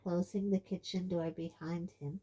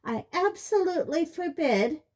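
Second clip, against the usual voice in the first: angry; 11 semitones higher, 9 dB louder than usual. A narrator's reading. Mother forbids amid a row.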